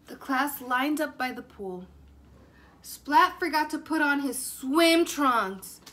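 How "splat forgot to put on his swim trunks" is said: teasing. Acted. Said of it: "teased Spike".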